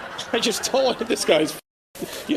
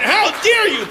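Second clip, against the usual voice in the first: mocking a man's prissy retort; 11 semitones higher, 4 dB louder than usual. Man snapping at his wife in a prissy mock voice. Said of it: "he definitely went".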